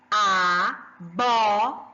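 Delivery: abóbora very slowly, with a strong drawn-out BÓ; slow a, BÓ, bo, ra, voice pushed on BÓ; stress on second syllable. Shown as a demonstration. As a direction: spell out abóbora in syllables, raising BÓ. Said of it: "Olha o meu bó".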